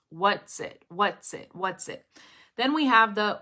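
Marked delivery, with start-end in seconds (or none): 0.1-2.0 "What's it" linked as what-tsit; T-S connection. Shown as a demonstration. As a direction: repeat "What's it" with a crisp tss join. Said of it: "we have the tss".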